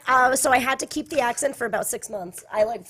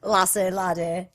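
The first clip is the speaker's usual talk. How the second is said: slow, lower Irish lilt; Irish accent; 4 semitones lower, slower than usual. Acted. Host trying Irish words, slow Irish accent. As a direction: draw out "Lasse, laddie" in Irish. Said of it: "What else do Irish people say?".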